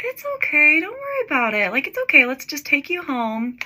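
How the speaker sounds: high-pitched soothing boyfriend, retold; imitated reassurance. Boyfriend comforting his crying girlfriend, imitated reassurance. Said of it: "he also handled it so well".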